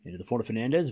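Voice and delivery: quick, running tennis rally commentary; live play-by-play. Real, not acted. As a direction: follow the ball shot by shot, fast.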